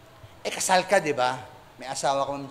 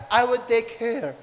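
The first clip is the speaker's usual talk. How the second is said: put-on British accent; 3 semitones lower, 3 dB quieter than usual. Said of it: "sabi niya".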